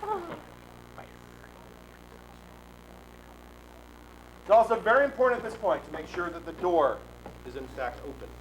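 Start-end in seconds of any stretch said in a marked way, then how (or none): 0.0-7.0 grand ringmaster patter; grandiose flea circus showman. Acted. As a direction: play it up for the crowd.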